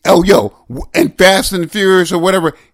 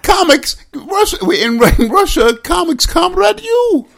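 put-on high-pitched comic Russian accent; mock Russian accent; 10 semitones higher than usual. Co-host fumbles an old joke, high Russian accent.

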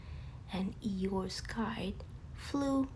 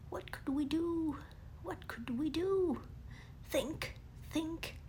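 muttering Pooh; 6 semitones higher than usual. Acted. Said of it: "muttered Pooh".

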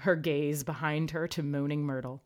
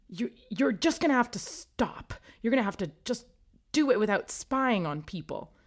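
awkward; 7 semitones higher, 4 dB louder than usual. A narrator's reading. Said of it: "she finished awkwardly".

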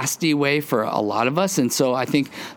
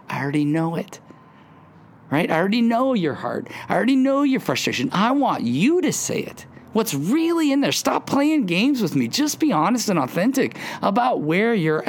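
higher, faster, urgent plea to come clean; voicing God, pleading; 6 semitones higher than usual. God urging the listener to be honest, in a higher, faster plea. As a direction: press them to stop hiding, higher and quicker.

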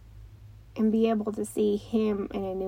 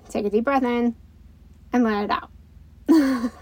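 calm breathing cue; 4 dB louder than usual. Shown as a demonstration. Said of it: "when your kids start to get upset".

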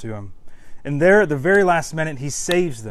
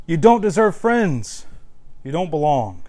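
accusing inner voice; 4 dB louder than usual. Retold or imitated. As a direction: lean in on each cruel verdict. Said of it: "this voice that says something is wrong".

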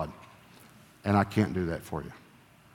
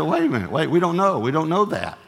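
higher and louder, quick protest; excited insisting; 6 semitones higher, 5 dB louder than usual. Retold or imitated. Husband insisting to wife it might be God, excited. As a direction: cut her off, eager.

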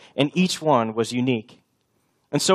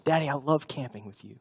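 put-on soft little girl; 8 dB quieter than usual. Daughter's reply voiced.

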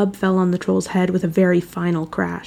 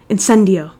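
spell cast; 6 dB louder than usual. A narrator's reading. Character casts a spell.

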